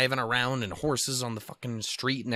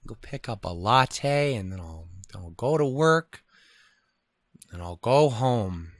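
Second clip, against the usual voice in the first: bored local. Retold or imitated. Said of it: "everyone's like".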